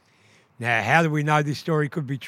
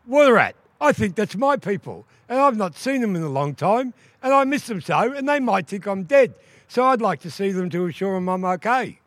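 higher, pleading wife's voice; pleading duck woman; 6 semitones higher, 4 dB louder than usual. Acted. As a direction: ask sweetly, missing her family. Duck woman pleads with water rat.

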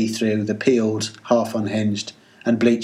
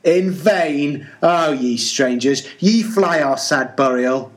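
foreboding voice; 3 semitones higher than usual. Acted. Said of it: "a foreboding voice".

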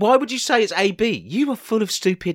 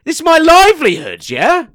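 indignant; 3 semitones higher, 6 dB louder than usual. Pretend. Mock row over scattered records.

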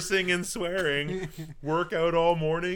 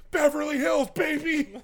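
excited; 13 semitones higher, 3 dB louder than usual. Pretend. Mock celebration of rich life.

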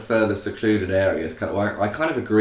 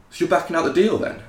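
menacing tone; 9 semitones higher, faster than usual. Retold or imitated. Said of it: "his tone has changed".

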